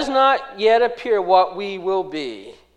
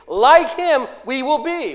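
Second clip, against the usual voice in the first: loud, raised "Like him" ahead of "we will be"; stress on LIKE HIM; 7 semitones higher, 5 dB louder than usual. Shown as a demonstration. Preacher repeats the verse to show its emphasis, emphatic. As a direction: hit "Like him" hard and high. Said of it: "What's the emphasis there?".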